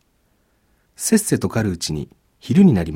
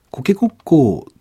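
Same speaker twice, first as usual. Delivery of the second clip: slow, higher rooster call; rooster crow; 8 semitones higher than usual. A narrator's reading. Grandpa imitates a rooster to scare the demon off. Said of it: "と鶏の真似をして鳴きました".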